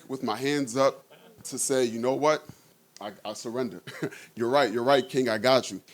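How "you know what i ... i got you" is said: quick surrender. Retold or imitated. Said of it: "I'm gonna bow like this so quick".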